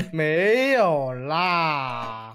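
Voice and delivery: very slow, stretched-out denial; drawn-out denial. Real, not acted. Teased hunter denies being cocky, drawn-out denial. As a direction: stretch every syllable right out.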